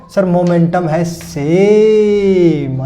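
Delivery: slow, drawn-out student voice; lightly voiced student answer, slow; student answering teacher. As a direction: drag it out like a hesitant pupil.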